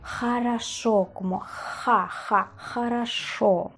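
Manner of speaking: slow хорошо with a soft "ha" start; stretched, falling "ha-ra-SHO". Shown as a demonstration. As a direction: soften the first consonant of хорошо, "ja, ja". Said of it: "más suave que la J española".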